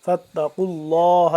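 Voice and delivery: فاتقوا with a thick, heavy qaf and اللہ with a full, round lam; heavy qaf, full Allah. Shown as a demonstration. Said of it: "قاف کو موٹا لفظ اللہ پور کر کے".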